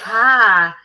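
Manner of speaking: Ivan's greeting. Retold or imitated. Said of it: "He goes".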